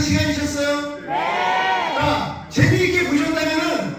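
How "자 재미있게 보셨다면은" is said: snake oil seller. Acted. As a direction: pitch it like a street peddler. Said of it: "약장수들처럼".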